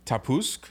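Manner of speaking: "Tapusk" offered as an unsure guess; tentative pronunciation. Shown as a demonstration. Host guessing at an unfamiliar pilot name, tentative pronunciation. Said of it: "I'm assuming is how this is pronounced".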